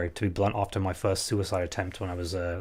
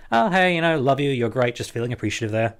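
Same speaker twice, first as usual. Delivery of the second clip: bright mock greeting; 4 semitones higher, 4 dB louder than usual. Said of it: "send messages to people saying".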